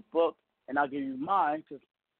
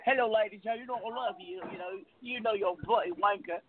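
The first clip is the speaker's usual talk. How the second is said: playful put-on British accent, a little higher; mock British accent; 3 semitones higher than usual. Host recalls the old radio bit in a mock British accent. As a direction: ham up a British accent for laughs. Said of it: "What happened to the British accent?".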